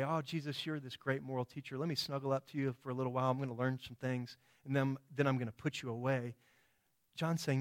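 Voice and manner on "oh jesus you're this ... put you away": casual, quicker patter with an offhand air; mock arrogance. Preacher imitating someone patronizing Jesus, mock arrogant. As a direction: toss it off as a condescending mock quote. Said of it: "you can't arrogantly just say".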